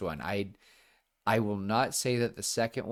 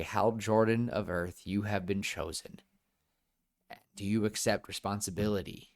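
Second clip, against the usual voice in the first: ring's solemn line. Retold or imitated. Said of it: "the ring should appear and say".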